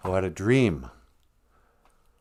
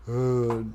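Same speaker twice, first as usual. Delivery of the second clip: zoned-out dull groan. Acted. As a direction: groan like a slack-jawed TV zombie. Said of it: "zoned out into the T V going".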